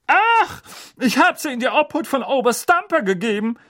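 glow with pride; beaming. Acted. Aunt telling her brother about the colonel, beaming. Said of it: "strahlte Tante Magda".

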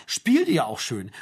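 slow, mocking echo of the pastor's words. Mother mimics the pastor's cosy question, slow and mocking. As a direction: draw the words out, mocking him. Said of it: "Das hat er zu denen gesagt".

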